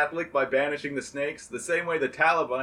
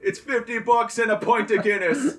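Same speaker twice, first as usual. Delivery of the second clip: mock pimp pitch; 8 semitones higher, 5 dB louder than usual. Saint as pimp hawking stone.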